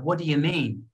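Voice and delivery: "what do you mean" run together as one chunk; chunked speech. Shown as a demonstration. Teacher showing chunking to students, "what do you mean" linked up. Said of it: "things is like chunking".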